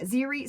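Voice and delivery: Ziri with ZEE as first syllable; common alternative pronunciation. Retold or imitated. Author quotes readers' common version, alternative pronunciation of Ziri. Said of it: "a lot of people said Ziri".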